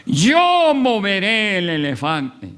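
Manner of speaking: repite la jactancia más fuerte; grito fanfarrón más fuerte. Retold or imitated. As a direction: Yo lanzado con más fuerza y más alto. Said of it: "alguien gritó". (grito jactancioso, más fuerte que la primera vez)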